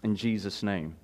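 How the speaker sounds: low, hushed congregational prayer; opening prayer. Real, not acted. Pastor asking the Lord to teach the congregation, prayerful. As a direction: pray earnestly, in a subdued even voice.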